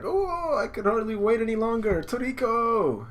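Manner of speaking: high, loud, excited bride's squeal; eager squeal. Acted. Bride calls to her groom, eager high squeal. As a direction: squeal it, drawing out the last name. Voices Rin calling out eagerly.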